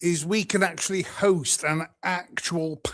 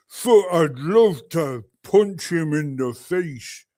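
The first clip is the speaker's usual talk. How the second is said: attempted New Mexico accent; 4 dB louder than usual. Streamer re-enacting a dimwit's threat, mock New Mexico accent. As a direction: mimic the dimwit in a caricatured American accent. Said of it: "What did he say?".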